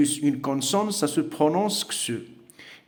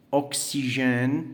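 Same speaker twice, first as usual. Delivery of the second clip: slow model word; much slower than usual. Shown as a demonstration. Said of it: "au milieu du mot".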